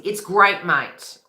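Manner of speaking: punchy Aussie catchphrase, loud first words; really Aussie. Shown as a demonstration. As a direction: lay on the Australian accent a little. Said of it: "say something really Aussie".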